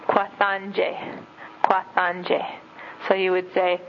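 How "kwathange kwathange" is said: kwathange said carefully as kwah-tahn-geh; teaching how to say please help me, slowly; Oshindonga word kwathange. Shown as a demonstration. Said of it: "you say".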